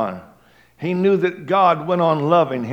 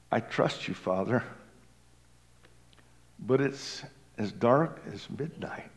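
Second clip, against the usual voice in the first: said brokenly; 3 semitones lower, 10 dB quieter than usual. A narrator's reading. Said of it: "said brokenly into the darkness".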